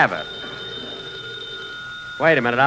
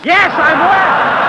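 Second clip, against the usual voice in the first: laughing answer; 9 semitones higher, 7 dB louder, much slower than usual. Real, not acted. Boss shouted at, answers back.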